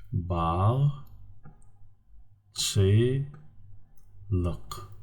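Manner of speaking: "Ba, chi, luk" with long pauses between; syllable by syllable. Shown as a demonstration. Teacher gives students the answer, "Ba, chi, luk" in separate syllables. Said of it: "three syllables".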